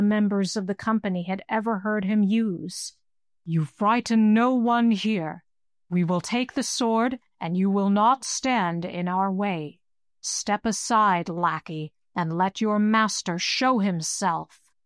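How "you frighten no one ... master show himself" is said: menacing command. Acted. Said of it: "commanded in the most menacing tone".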